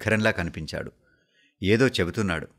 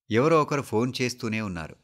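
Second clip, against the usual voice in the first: ordinary delivery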